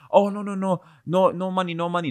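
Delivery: high-pitched mock protest; panicked refusal. Strangers turning down a photographer's offer, high-pitched refusal.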